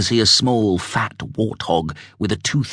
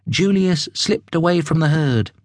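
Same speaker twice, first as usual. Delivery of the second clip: ordinary delivery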